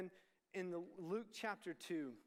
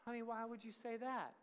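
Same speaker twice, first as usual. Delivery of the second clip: slightly higher, softened mom voice; imitating hurt mom; 4 semitones higher than usual. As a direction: ask gently, as a wounded mom. Hurt mom answers cruel remark.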